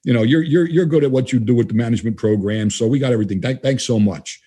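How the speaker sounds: a light imitation of a courteous refusal; polite, gentle brush-off. The vice president politely turning down his offer, lightly imitated, gentle and courteous. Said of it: "very nicely and politely and gently".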